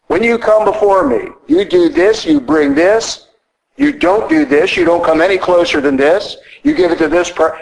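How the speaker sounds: commanding, clipped-up high bursts on this and don't; God's commands. Retold or imitated. Priest voicing God's commands to the Israelites, high and insistent. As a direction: proclaim God's rules with rising emphasis.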